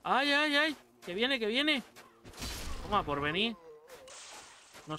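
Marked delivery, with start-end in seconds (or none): 0.0-1.8 high, hammed-up panic cries; mock panic. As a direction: squeal like you're being chased. Enemigo se acerca, pánico jugando. (pánico exagerado de broma)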